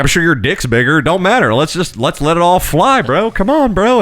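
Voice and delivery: mock hype-man cheering, voice climbing high; hyped-up bro. Hypothetical joke to customer.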